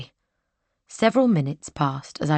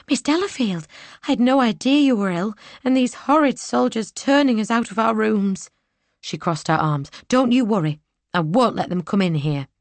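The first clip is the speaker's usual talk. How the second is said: higher, indignant lady's maid; a maid clucking over her mistress; fussing maid; 6 semitones higher than usual. Acted. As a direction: Portia comforting her mistress. Portia the maid speaks.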